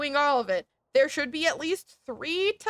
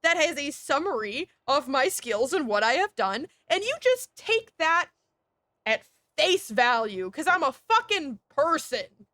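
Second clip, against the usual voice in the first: defiant imagined reply; 2 semitones higher than usual. Retold or imitated. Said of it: "What if I say".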